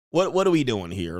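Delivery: usual speaking voice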